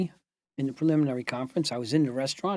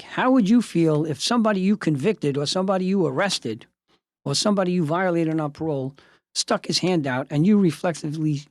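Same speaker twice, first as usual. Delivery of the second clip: impassioned plea; 2 semitones higher, 4 dB louder than usual. Retold or imitated. Lawyer's impassioned plea to officials.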